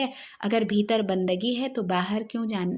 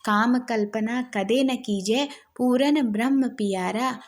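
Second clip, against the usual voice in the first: slow, measured chant of a devotional verse; teacher reciting Dadu's verse slowly for the class; slow poem recitation; slower than usual. Acted. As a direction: recite it like a bhajan, unhurried. Recites a Dadu pad.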